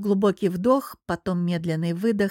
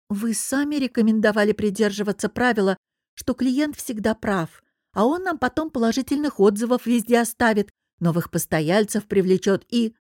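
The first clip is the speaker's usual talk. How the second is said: meek voice; 2 semitones higher than usual. Acted. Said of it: "произнесла покорным голоском".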